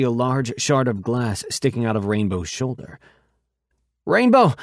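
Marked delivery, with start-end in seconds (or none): 4.0-4.5 high, loud cry of his name; alarmed scream. Acted. She sees him hurt.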